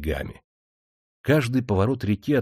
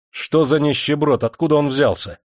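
a touch of the angry master, a bit louder; angry shout; 5 semitones higher, 4 dB louder than usual. Acted. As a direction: demand it, mildly irate. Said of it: "гневаясь, закричал Демидов". (сдержанно гневный окрик)

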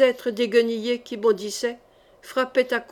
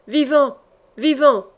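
loud, high howl; howling command; 3 semitones higher, 5 dB louder than usual. Acted. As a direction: bellow the order across the yard. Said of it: "hurla Courteheuse".

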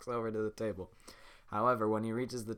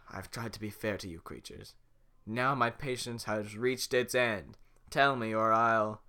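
slowing, building louder; slow menacing threat; 5 dB louder than usual. Acted. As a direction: lose your patience slowly. Farquaad threatening.

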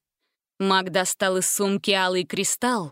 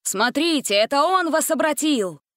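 higher, calling out accusingly; shouting; 6 semitones higher than usual. A narrator's reading. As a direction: point and yell. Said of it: "крикнул он животным".

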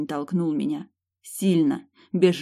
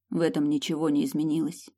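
usual speaking voice

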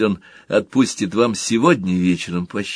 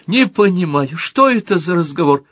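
plaintive mother voice; 8 semitones higher, 4 dB louder than usual. Pretend. Little Motl plays the mother, whining plaintively. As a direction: whimper it like a put-upon mother. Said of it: "Мотл маленький".

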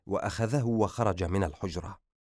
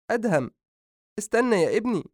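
high, pleading call after him; mother crying after her leaving son; 12 semitones higher, 4 dB louder than usual. Acted. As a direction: call your son back.

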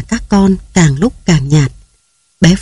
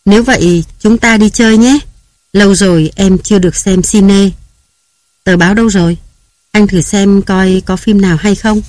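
cheerful; 3 semitones higher than usual. Acted. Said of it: "rồi vui vẻ".

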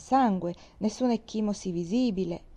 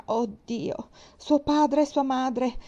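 understated anguish, rising in pitch; agonised exclamation; 5 semitones higher, slower than usual. A narrator's reading. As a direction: cry out in anguish, drawing out the end. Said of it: "in preda alla più atroce agonia".

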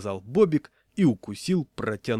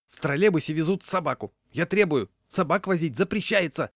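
höher, lauter, empört; outraged demand; 6 semitones higher, 4 dB louder than usual. A narrator's reading. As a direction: insist shrilly and louder.

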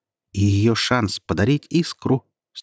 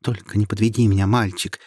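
repeating urgently. Acted. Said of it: "твердила она, не переставая".

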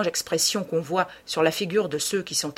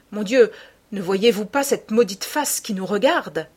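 an urgent, louder plea to kneel and pray; pleading painter; 3 semitones higher, 4 dB louder than usual. Acted. Hallward begs Dorian to pray, louder and urgent. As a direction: press him hard, half desperate.

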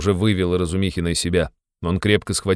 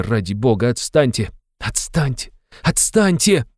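rising, louder pleading tirade, out of breath; breathless outburst; 8 semitones higher, 4 dB louder than usual. Acted. Raskolnikov begging Razumikhin to leave him alone, breathless. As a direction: let it build to a desperate plea. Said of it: "окончил выступление и задыхаясь".

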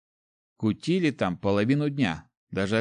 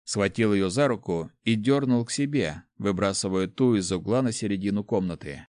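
plain reading voice

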